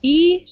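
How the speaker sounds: teacher models "E" ending. Shown as a demonstration. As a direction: model the "E" ending slowly and clearly. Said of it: "between the ending".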